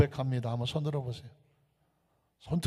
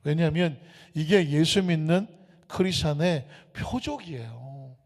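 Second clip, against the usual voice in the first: ordinary talk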